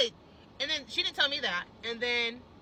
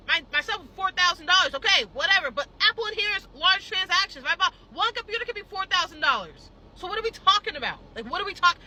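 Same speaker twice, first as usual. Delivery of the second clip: heated confrontation; 4 semitones higher, 4 dB louder than usual. Retold or imitated. Confronting the manager.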